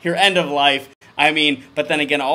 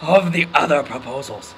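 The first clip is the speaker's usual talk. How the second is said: loud, shouted reading of the bold text; reading loudly; 3 semitones higher, 10 dB louder than usual. Shown as a demonstration. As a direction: belt it out like bold print. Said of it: "That's in quotes, like, really big".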